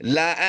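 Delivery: short recited लअंतुम; quick model recitation; Quranic recitation. Shown as a demonstration. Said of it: "फिर पढ़ लीजिए".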